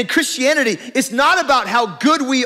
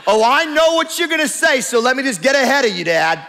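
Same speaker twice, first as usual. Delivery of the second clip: put-on eye-rolling teen daughter; 3 semitones higher than usual.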